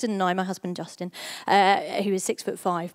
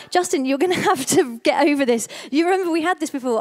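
mildly exasperated, pitched up; exasperated retort; 4 semitones higher, 3 dB louder than usual. Retold or imitated. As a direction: push back at a partner with a touch of exasperation. Acted retort to partner.

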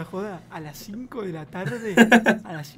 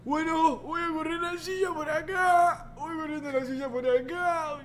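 high, put-on old man voice; caricatured elderly teacher, pitched high; 6 semitones higher than usual. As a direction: drag it out like a doddering old professor. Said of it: "yo soy viejo".

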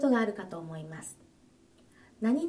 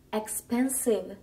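slow model word; slower than usual. Shown as a demonstration. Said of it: "単語の発音から".

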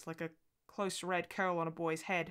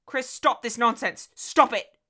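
loud, higher, slow sharp rebuke; stern scolding; 6 semitones higher, 10 dB louder, slower than usual. A narrator's reading. Mother scolds her weeping daughter, loud and slow. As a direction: cut the child's fit short, slowly and firmly.

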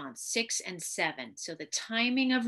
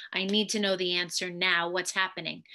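interrogating tone. Shown as a demonstration. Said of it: "as opposed to an interrogating, questioning".

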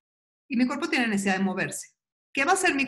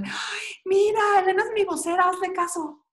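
voice of the body; 10 semitones higher, 4 dB louder than usual. Pretend. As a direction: play your body cheering you on. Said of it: "tu cuerpo está feliz así diciéndole".

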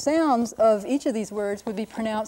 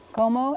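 Cómo with CÓ stressed, ending on a rise; stress on first syllable; 3 semitones higher than usual. Shown as a demonstration. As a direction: sound out Cómo alone, first syllable accented. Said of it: "accent on the first syllable".

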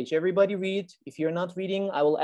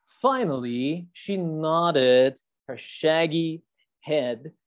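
slow read-aloud; story reading; 3 dB louder, much slower than usual. Acted. Teacher reading the story page to the class, slowly.

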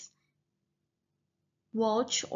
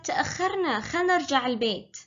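higher, urgent we're late; worried sister; 3 semitones higher, much faster than usual. Acted. Hissa urging her sister home, higher and urgent. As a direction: hurry her along, a bit anxious. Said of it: "حصة said".

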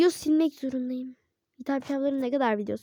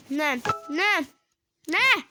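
shocked what; 3 semitones higher, 4 dB louder, slower than usual. Real, not acted. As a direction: yelp in disbelief. Repeated disbelieving what.

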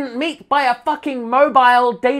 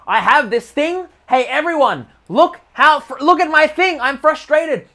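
higher, louder mock whine; mock complainer; 5 semitones higher, 4 dB louder than usual. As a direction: show off your misery to everyone. Mocking attention-seeking complainer.

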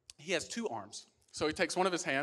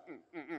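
muffled grunts; 11 dB quieter than usual. Acted. Acts breathing through one nostril.

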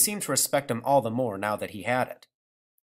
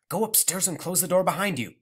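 firm order; 6 semitones higher than usual. Acted. Mother ordering.

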